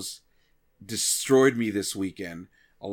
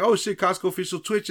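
high excited gasp; thrilled at the name; excited surprise; 6 semitones higher than usual. Retold or imitated.

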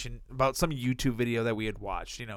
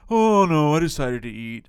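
casual brother reply; 7 dB louder than usual. Retold or imitated. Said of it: "So I thought you were hungry".

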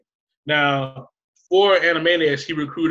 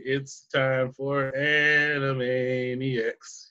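announcer voice; much slower than usual. Retold or imitated. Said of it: "not to steal a line".

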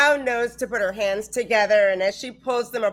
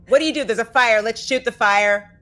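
loud, flustered thinking aloud; flustered panic; 3 semitones higher, 6 dB louder than usual. Acted. Player acts out her character not knowing what to do, flustered. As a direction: blurt it out in a mock panic.

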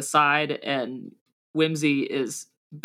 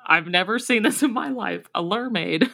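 laughing through the words; cracking up while talking; 4 semitones higher, 3 dB louder than usual. Real, not acted. Mishears lion mermaid, laughing.

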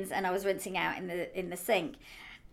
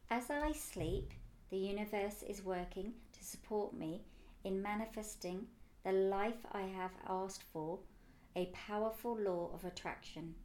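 affirmation read; 7 dB quieter than usual. Acted. Reads her affirmation.

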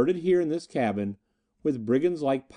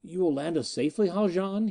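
demanded anxiously; 5 semitones higher than usual. Acted. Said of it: "he demanded anxiously".

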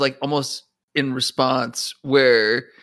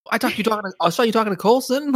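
mock yelling; 9 semitones higher, much faster than usual. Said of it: "He's, like, yelling at her".

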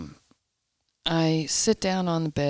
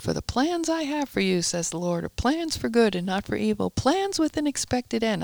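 mock yell; 4 semitones higher than usual. Nanny quotes scripture down the hallway, mild mock yell. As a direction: proclaim it as if down a hallway, without real volume. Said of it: "she's yelling it down the hallway".

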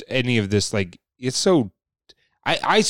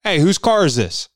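much higher, sing-song call; mock stoned guard; 7 semitones higher than usual. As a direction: play a high guard calling out cheerfully.

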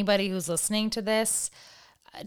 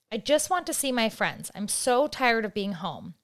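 put-on upset child; 3 semitones higher than usual. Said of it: "see how this goes".

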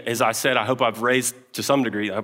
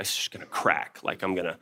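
near tears; 5 semitones lower, 7 dB quieter than usual. Retold or imitated. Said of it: "my eye is like glass".

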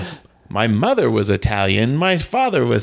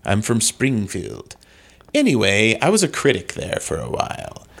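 odd theatrical comic inflection. Pretend. Comic guest explains his childhood accident, theatrical inflection. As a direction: ham it up with swooping intonation.

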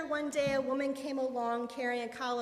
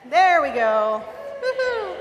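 loud whoop, jumping higher; delighted cheer; 6 semitones higher, 15 dB louder, slower than usual. Real, not acted. Speaker to congregation as the microphone comes on, delighted cheer. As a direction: cheer loudly as it finally works.

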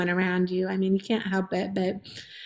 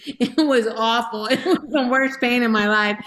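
laughing it off; 2 semitones higher than usual. Real, not acted. Mother telling Sherry about labour, laughing. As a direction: laugh through the memory of the pain.

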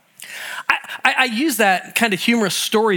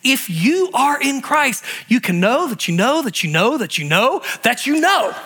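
preaching at full force; 7 semitones higher than usual. Real, not acted. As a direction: drive the point home with force. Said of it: "preaching assurance".

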